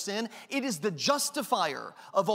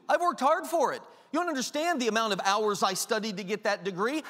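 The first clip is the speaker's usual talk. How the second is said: a hint of smug entitlement; mock self-justifying. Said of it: "Pride justifying a sin".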